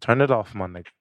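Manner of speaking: lightly mimicked New York accent. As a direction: imitate a New Yorker giving an order. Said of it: "That's how the fuck they be".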